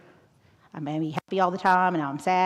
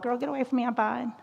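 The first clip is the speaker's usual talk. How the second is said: higher, sassy get away; dismissive brush-off; 6 semitones higher, faster than usual. Pretend. A lonely classmate brushing off a greeting with sass. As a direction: wave her off with attitude.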